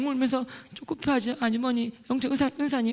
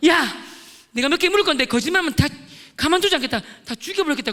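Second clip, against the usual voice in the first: loud, raised threatening shout, acted; tearful threat; 4 semitones higher, 3 dB louder than usual. Threatening classmates before questioning them, acted angry outburst. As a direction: threaten them, voice pitched up and forceful. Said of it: "막 울면서".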